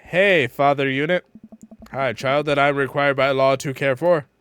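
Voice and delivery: loud, evenly pitched announcement; deadpan, projected banter; mock-formal greeting. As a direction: declare it like a stiff joke greeting. Acted greeting between daughter and dad.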